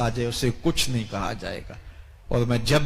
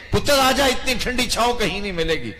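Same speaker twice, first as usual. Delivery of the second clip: mother calling out; 9 semitones higher than usual. Acted. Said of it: "پکار کے کہتی ہے". (ماں کی اونچی پکار، بیٹے کو واپس بلاتی)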